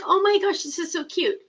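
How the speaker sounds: high-pitched mild squeal of delight. Retold or imitated. Friend retelling opening a box of windsocks, delighted. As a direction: gush over something adorable, voice up high.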